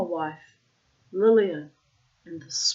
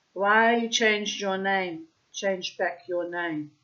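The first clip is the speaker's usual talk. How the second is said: put-on Russian accent; slower than usual. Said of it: "I'm putting in the Russian accent".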